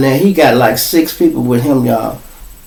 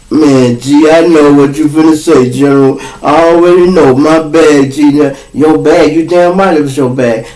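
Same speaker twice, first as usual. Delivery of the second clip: louder, pleading confession; caught friend pleading; 4 dB louder than usual. Retold or imitated. Caught friend owning up to the boss, loud pleading. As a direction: rush the apology before he yells.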